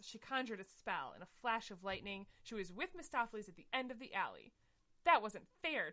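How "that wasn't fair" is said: louder mock whine. Tinkerbell whining at Mistopheles about the race. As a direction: complain like a sulky kitten. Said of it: "Tinkerbell whined".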